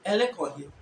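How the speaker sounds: "Ele call him" as Fanti "ereko he"; Fanti accent. Shown as a demonstration. Teacher repeating the Fanti example, Fanti accent. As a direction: Fanti question with a falling end. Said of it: "But Fanti is".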